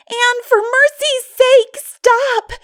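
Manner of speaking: gasping plea after running; panting. A narrator's reading. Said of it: "panted poor Diana".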